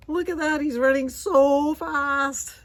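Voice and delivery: high, thrilled gasp and cry; excited gasp. Real, not acted. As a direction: gasp then cheer him on. Dog racing to mailbox.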